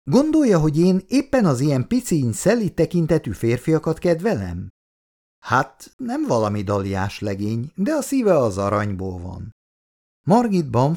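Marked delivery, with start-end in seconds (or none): 0.0-4.7 angry reply. Acted. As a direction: bristle at the suggestion. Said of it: "Margit mérgesen válaszolt".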